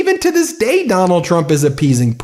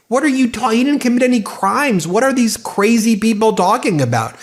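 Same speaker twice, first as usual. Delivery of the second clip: exasperated outrage; 5 semitones higher than usual. Real, not acted. Outraged rant at claims.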